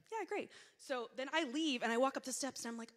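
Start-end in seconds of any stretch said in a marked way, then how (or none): 0.1-0.5 high, thin polite reply; polite forced agreement. Retold or imitated. Friend politely answering the donut gushing, high forced politeness. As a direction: humor her politely. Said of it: "politely like".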